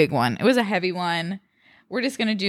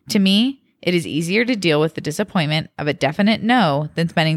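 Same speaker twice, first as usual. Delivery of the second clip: measured podcast read-aloud; reading a post aloud; 3 dB louder than usual. A narrator's reading. Podcast host reading a birthday Reddit post to co-host, expressive read-aloud. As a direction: read it out clearly, phrase by phrase.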